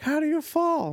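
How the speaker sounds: high mock disbelief; incredulous friends. Party friends mock his fall, high and incredulous. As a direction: squeak it like friends who can't believe it. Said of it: "They're like".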